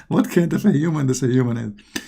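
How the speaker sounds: real chuckle breaking into the question; amused laughter. Real, not acted. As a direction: ask it through leftover laughter. Laughing at own drawing.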